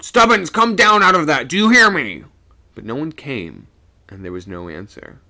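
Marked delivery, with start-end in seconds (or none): 0.0-2.2 high loud stern order; calling out. A narrator's reading. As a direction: order him down, loudly. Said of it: "sung out".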